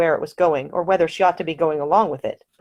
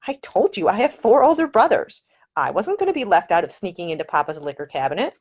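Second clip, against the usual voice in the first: a proud heroine making her case, raised in pitch; Ida's voice; 3 semitones higher than usual. Acted. Ida answers about whiskey.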